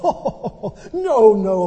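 laughing it off with a retold chuckle; amused laughing no. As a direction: laugh through the words, brushing it aside. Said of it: "the pastor laughed and said".

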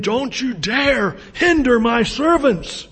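loud, high-pitched commanding shout; thundering warning. Acted. Jesus warning the church not to hinder his servants, thundering. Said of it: "creaking with his power".

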